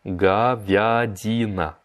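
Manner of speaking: говядина said very slowly and clearly; slow teaching repeat. Shown as a demonstration. Teacher slowing говядина down for the class. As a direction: draw out говядина. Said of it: "slow repeat of vocabulary".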